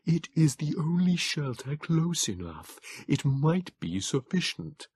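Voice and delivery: slow, high, thin creature voice; frail Morlock begging him into shelter; pleading Morlock. A narrator's reading. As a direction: plead gently but urgently. Morlock figure.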